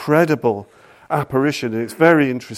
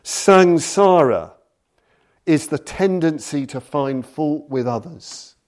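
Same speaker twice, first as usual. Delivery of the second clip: solemn recitation; 4 semitones higher than usual. Shown as a demonstration. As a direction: declaim the opening line of a sacred song. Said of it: "It begins with the incredible lines".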